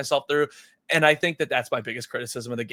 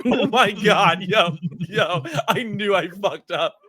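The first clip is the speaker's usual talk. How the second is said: mock panic; 5 semitones higher, 5 dB louder, slower than usual. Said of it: "I was like".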